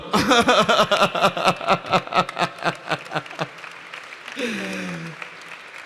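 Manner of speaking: long high burst of laughter. Real, not acted. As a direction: laugh it out freely.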